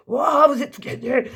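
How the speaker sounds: «Wow» aigu, voix qui monte; s'extasier devant le tirage; émerveillement. Real, not acted. Toutes les voyelles sorties. (annonce au groupe qu'il a tout gagné, ravie)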